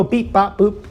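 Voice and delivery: mock robot beep bop boop; computer beeps. Explaining Amazon to grandma, mock computer beeps. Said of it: "com-, you know".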